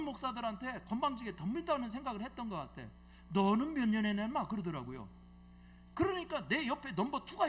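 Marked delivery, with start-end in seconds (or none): 3.3-4.3 put-on louder, heated demand from an old pastor; angry outburst. Old pastor snapping at younger pastors, loud and heated. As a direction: throw the question as a hot challenge. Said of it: "이분이 막 더 올라왔어".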